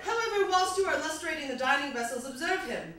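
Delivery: slightly bad British recital; quasi British accent. Comic recites a song to audience, slightly bad British accent. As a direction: read it as poetry in mock-British English. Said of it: "slightly bad British accent".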